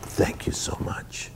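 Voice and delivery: slow, breathless whisper of thanks; a grateful star quietly thanking a crying fan; humble whisper. Retold or imitated. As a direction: thank them gently, almost under your breath. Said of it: "the same ego going".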